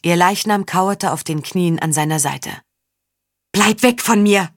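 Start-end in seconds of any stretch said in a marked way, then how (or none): 3.5-4.5 higher, angry hissing warning; hissed warning. Acted. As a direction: spit it at her to keep her away. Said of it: "fauchte Saga".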